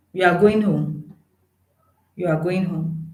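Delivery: falling statement tune; statement tune on a question. Shown as a demonstration. Teacher showing the wrong flat tune. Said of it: "Let me think of an instance for that".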